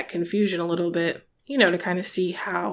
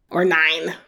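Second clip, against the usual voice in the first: put-on German accent; 2 semitones lower than usual. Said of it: "Pardon my terrible German accent".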